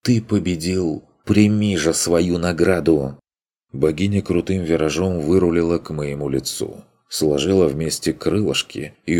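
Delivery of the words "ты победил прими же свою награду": higher, swooning little fairy; languid fairy voice. Acted. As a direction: purr the praise like a fairy. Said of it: "томный голос фейки".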